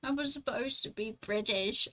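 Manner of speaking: badly faked British accent; attempted British accent. Streamer supposed to be British, amateur accent attempt. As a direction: have an unsure go at sounding British. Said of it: "I don't know how to do an Australian accent".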